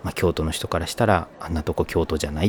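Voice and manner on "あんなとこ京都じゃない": dismissive quote. Retold or imitated. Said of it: "って言われるし".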